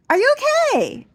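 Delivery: high, loud worried question; mock-worried salon lady; concerned beautician. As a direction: ask it like an anxious beautician. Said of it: "and she goes".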